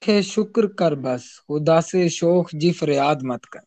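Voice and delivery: choppy online connection; voice cutting out. Real, not acted. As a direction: audio breaking up mid-line. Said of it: "آپ کا connection دوبارہ سے تھوڑا وہ disturb ہو گیا تھا". (کنیکشن ٹوٹتی آواز)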